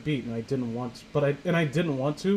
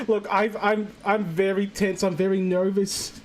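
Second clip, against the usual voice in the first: confiding Jeff voice; 5 semitones higher than usual. Retold or imitated. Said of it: "it's like Jeff is confiding in her".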